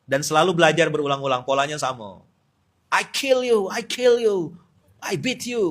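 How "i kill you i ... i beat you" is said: high, loud mock fighter boasting; hammed-up threat from a cocky fighter; fighter trash talk. Cocky MMA fighter taunting his opponent before the fight, hammed-up.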